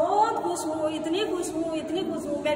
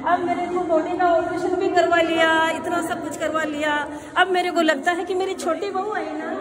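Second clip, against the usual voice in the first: louder, aggrieved grumbling; loud complaint; 5 dB louder than usual. Acted. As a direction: complain loudly about all her labour. Complaining about her work. (घुटने के operation पर ऊँची आवाज़ में शिकायत)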